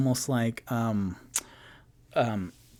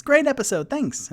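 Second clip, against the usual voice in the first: reading dad's comment; 12 semitones higher, 4 dB louder than usual. Retold or imitated. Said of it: "my dad says".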